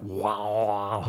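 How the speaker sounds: slow droning wow like a didgeridoo; didgeridoo drone impression. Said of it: "That was my didgeridoo impression".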